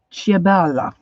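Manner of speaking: a light Italian accent on Ciabella, falling at the end. Shown as a demonstration. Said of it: "get my Italian accent going here".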